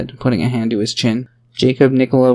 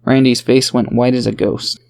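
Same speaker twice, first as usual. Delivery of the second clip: ordinary delivery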